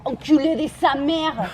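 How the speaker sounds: slow, loud curse with a laugh. Acted. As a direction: spit the curse out, half laughing. Insults Shakespeare's voice.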